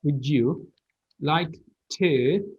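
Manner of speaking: "would you" as "would-joo", then "like to"; linked reduced form. Shown as a demonstration. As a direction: say "would you like to" in joined pieces. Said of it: "this O becomes kind of a".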